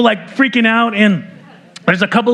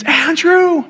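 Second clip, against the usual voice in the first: retold scream; 10 semitones higher than usual. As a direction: cry the name out high and alarmed, as the mother-in-law would. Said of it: "she screams".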